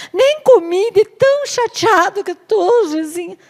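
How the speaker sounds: put-on very high childish pleading voice; whiny Ahab. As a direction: whine and tattle like a spoiled child. Ahab whining.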